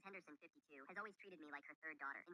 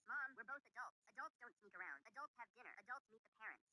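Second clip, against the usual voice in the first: loud; 6 semitones higher, 5 dB louder than usual. Retold or imitated. Daughter arguing back at mother.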